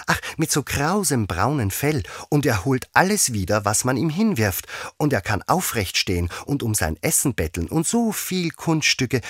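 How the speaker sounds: high-pitched, enthusiastic gushing; eager Alice, carried away in a high voice; eager chattering. A narrator's reading. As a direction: rattle on keenly about a wonderful dog. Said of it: "daher fuhr Alice eifrig fort".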